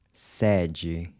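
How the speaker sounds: sede with an open E, like the E in air; sede, mouth wide on the E. Shown as a demonstration. Teacher models Portuguese sede with an open E. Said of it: "the open E is pronounced".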